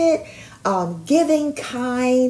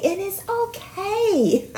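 laughing; 11 semitones higher, 3 dB quieter, slower than usual. Real, not acted. Reassuring listeners, laughing.

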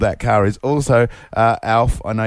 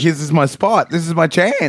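eager inner voice, pitched up; mock excitement; 6 semitones higher than usual. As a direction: imitate a friend seizing the moment. Co-host voices friend's eager thought.

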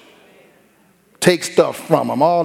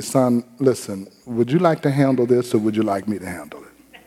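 calm father; 4 semitones lower, 3 dB quieter than usual. Retold or imitated. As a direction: lay out the choice gently. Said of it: "I said".

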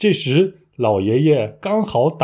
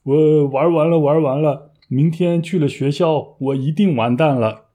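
whiny pretend wail, higher pitched; mock crying; 4 semitones higher than usual. Student without homework, fake-crying about school tomorrow. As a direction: act out a hammed-up lament. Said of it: "所以我哭着说".

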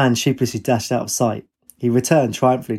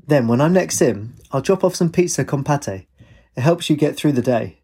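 a hint of an expansive dad; lightly voiced father; 4 semitones higher than usual. Father promising food to checkout assistant, lightly expansive. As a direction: lightly play a generous dad, somewhat higher.

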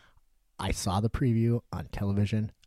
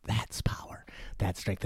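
slow hushed villain speech; Thulsa Doom whisper. Retold or imitated. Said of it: "he's like".

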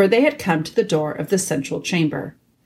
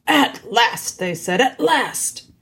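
eager badgers; 5 semitones higher, slower than usual. A narrator's reading.

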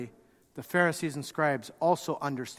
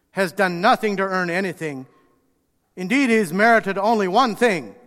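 louder indignant protest, hammering his grievances; indignant complaint; 6 dB louder than usual. Acted. Older brother arguing with his father, louder indignation. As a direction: vent every grievance at the father. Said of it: "he says it like this".

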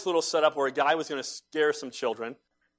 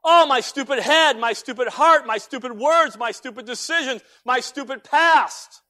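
higher, loud hammed-up self-reproach; mock self-berating; 11 semitones higher, 10 dB louder than usual. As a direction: pile up the complaints like a mock lament. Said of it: "We do this".

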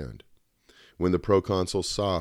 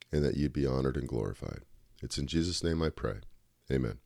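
prayer. Acted. Leads an opening prayer.

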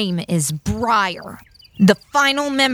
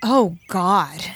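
whispered aside. Acted. Aside under breath.

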